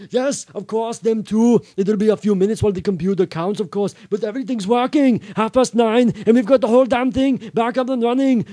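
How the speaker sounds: high, loud, gushing character; very excited. A narrator's reading. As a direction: burst out with it, unable to hold back. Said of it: "Arnold was so excited he couldn't".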